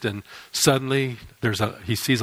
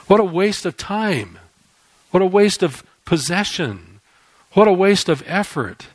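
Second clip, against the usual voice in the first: rising lament; 6 semitones higher, 5 dB louder than usual. Real, not acted. Preacher laments empty worship.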